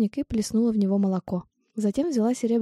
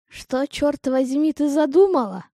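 put-on rough cawing voice, heavy Irish accent; slow, loud and croaky, strong Irish brogue; croaky Irish old woman; 6 semitones higher, 5 dB louder, slower than usual. A narrator's reading. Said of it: "Её грубый, каркающий голос". (грубый каркающий голос с ирландским акцентом)

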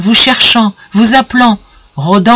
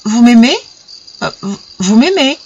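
pensive; 4 semitones higher than usual. A narrator's reading. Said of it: "répéta d'une voix pensive".

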